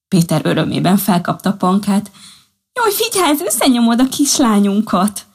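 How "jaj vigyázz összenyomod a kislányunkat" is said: high, startled cry to be careful; anxious caution. Acted. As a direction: gently warn him not to squeeze the baby. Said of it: "óvatoskodott Panka". (magas, ijedt óvatoskodás)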